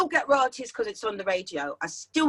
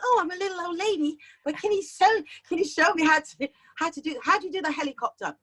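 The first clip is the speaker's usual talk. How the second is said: lightly voiced little old lady; 5 semitones higher, faster than usual. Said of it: "and you think".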